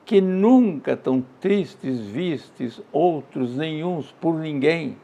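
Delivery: slow, measured reading of a sad verse; poem recitation. Acted. Teacher reciting a medieval poem to the class, slow and mournful. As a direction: savour each line as a lament.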